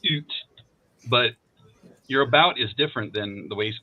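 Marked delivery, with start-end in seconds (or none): 0.1-0.3 "oot" with a hard oo sound; hard Canadian vowel. Shown as a demonstration. American showing Canadians their vowel, hard "oot". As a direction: isolate "oot", the stressed end of Canadian "about". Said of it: "It's not quite as hard".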